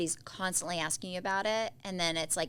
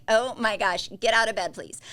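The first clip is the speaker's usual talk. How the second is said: exasperated plea; 3 semitones higher, 8 dB louder than usual. Retold or imitated. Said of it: "I'm like".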